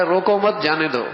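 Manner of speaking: روکو مت as one unit, stress on مت; group it as روکو مت, جانے دو; pause after مت. Shown as a demonstration. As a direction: join مت to روکو, then جانے دو. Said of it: "اور وہ کہہ رہا ہے".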